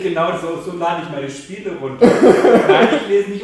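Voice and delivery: loud laughing speech. Real, not acted. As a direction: speak through loud laughter. Lacht laut über Gamer-Rolle. (laut lachend)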